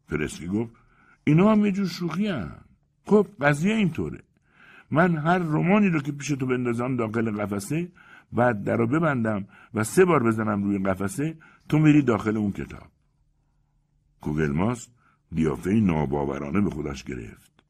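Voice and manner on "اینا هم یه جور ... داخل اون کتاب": a higher, theatrical conjurer pitching his wonder; Persky the magician. Acted. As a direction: play the showman magician explaining his trick. Persky explains magic cabinet.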